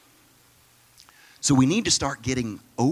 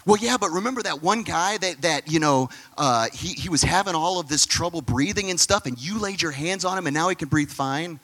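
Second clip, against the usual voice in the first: higher, earnest disciple voice; pleading apostle; 5 semitones higher than usual. Retold or imitated. Apostle reminding Jesus of a healing, higher and eager. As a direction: remind him hopefully.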